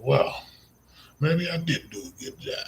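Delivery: surprised and touched by praise; pleased surprise. Retold or imitated. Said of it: "they're probably like".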